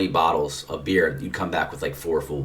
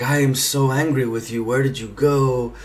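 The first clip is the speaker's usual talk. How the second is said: imitated angry crying; 7 semitones higher, 5 dB louder than usual. Melanie confronting him at the hotel after he vanished, angry. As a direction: act out her upset, raised-voice confrontation. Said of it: "she's crying".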